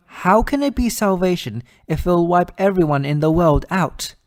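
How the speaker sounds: outraged rhetorical question; indignant disbelief. Acted. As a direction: challenge it in disbelief, building in force. Objects to world being wiped out.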